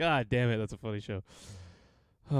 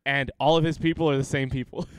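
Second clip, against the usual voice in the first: ordinary delivery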